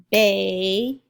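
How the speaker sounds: put-on "Baby" as loud long bay, pause, bee; split into syllables. Shown as a demonstration. Teacher sounding out a word, split into syllables. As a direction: draw out each half of "Baby" separately. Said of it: "it's baby".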